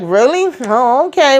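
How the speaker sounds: high, doubtful reaction; skeptical sister. Retold or imitated. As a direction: imitate a politely unconvinced response. Imitating the unconvinced sister's reply.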